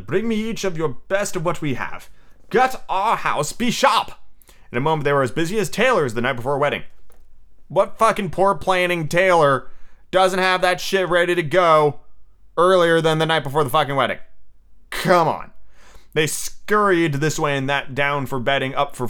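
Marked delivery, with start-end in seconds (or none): 0.0-4.1 brisk command climbing high at the end; ordering. Acted. Peter sending the boys to gut the house, ordering. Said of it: "he ordered them". 7.7-15.5 exasperated rant. Real, not acted. Reader ranting aside about a tailor's planning, exasperated.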